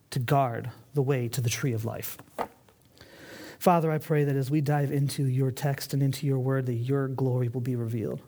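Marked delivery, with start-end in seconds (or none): 3.6-8.2 prayer. Real, not acted. Opens in prayer.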